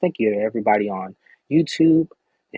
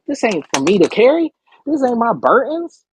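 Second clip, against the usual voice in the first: imitating a firm refusal; 9 semitones higher, 5 dB louder than usual. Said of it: "You like".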